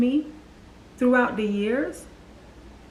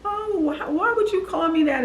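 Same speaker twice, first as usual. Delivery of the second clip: imitating crying; 7 semitones higher than usual. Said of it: "you know, I'm crying".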